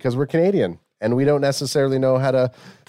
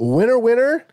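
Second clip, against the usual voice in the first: announcer voice; 11 semitones higher, 3 dB louder, slower than usual. Acted. Hammed ad catchphrase.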